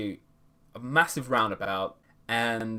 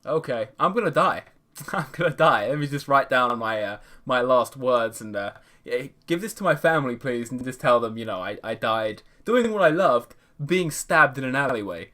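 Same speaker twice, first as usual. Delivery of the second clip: mock doom; 3 dB louder than usual. Mock despair, laughing.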